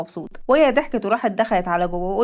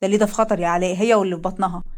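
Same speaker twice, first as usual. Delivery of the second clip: lightly lowered male voices; two colleagues greeting, voiced lower; men at work; 3 semitones lower than usual. Alaa and Leil alarmed.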